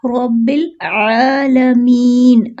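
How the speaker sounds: रब्बिल with a thick heavy र, आलमीन slow. Shown as a demonstration. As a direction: give रब्बिल a full heavy र. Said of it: "रॉ को मोटा पढ़ना है". (रब्बिल में मोटा रॉ)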